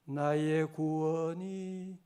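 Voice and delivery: prayerful, very slow recitation. Real, not acted. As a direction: let each phrase settle slowly. Slow meditative psalm recital.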